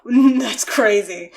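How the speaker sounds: simpleton voice. Retold or imitated. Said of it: "simpleton voice".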